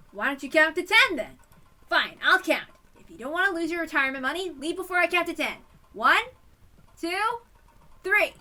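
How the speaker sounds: loud, high and fired up; pumped-up yelled countdown; fired-up shout. Acted. Counting to ten challenge.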